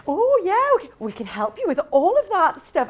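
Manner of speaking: high, eager phone voice; keen and a bit naive; eager young caller. Retold or imitated. Imitating her young self promising help, lightly high. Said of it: "I used to go".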